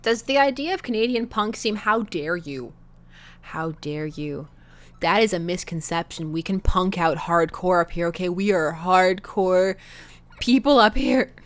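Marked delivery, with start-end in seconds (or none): 1.8-4.5 mock outrage. Mock offended Canadian. 8.3-11.3 mock tough.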